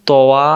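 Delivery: তওয়া said as the wrong two-part ta-wa; wrong pronunciation তওয়া, split into ta and wa; wrong reading tawa. Shown as a demonstration. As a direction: demonstrate the mistaken তওয়া with a wa glide. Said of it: "এমন পড়া যাবে না".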